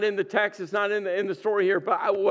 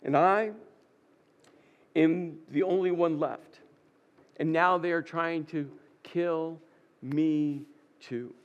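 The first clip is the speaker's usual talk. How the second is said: dejected; 5 semitones lower, 4 dB quieter than usual. Acted. Elijah's despairing complaint, acted.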